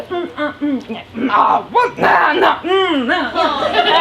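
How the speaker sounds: a string of expressive mm, nah, yeah noises; hammed-up French sound conversation; French grunts. Shown as a demonstration. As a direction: talk only in French filler sounds. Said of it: "So we go".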